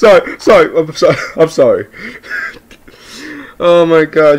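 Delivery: talking through laughter. Reacting to a funny line while watching, laughing while talking.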